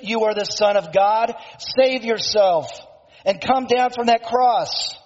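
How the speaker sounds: a preacher voicing scornful passers-by; mocking. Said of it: "They mocked Jesus".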